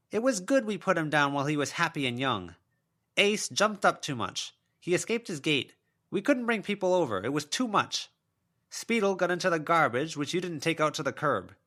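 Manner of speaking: a mother's ghost listing her excuses; self-pitying spectral mother; wounded ghost mother. A narrator's reading.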